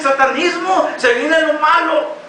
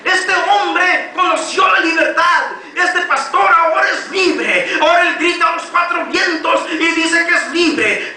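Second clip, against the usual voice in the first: raised, insistent preaching to the church; fiery preaching; 2 semitones higher than usual. Acted. Preacher rousing his brothers in church: fervent full-force preaching.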